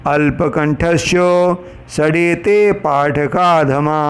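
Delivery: very slow, drawn-out Sanskrit chanting; slow recited Sanskrit verse; shloka recitation. Acted. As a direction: intone the verse slowly and steadily.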